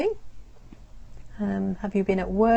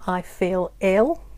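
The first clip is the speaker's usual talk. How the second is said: slow, clear demo; slower than usual. Shown as a demonstration. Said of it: "You say".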